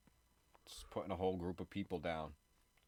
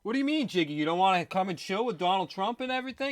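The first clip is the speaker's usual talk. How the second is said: much higher and louder cartoonish mock voice; mocking impression; 14 semitones higher, 13 dB louder than usual. Teasing Jiggy with a shrill, loud mock invite. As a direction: squeal the fake invitation like a wheedling fan. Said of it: "everybody's like, all of a sudden, like".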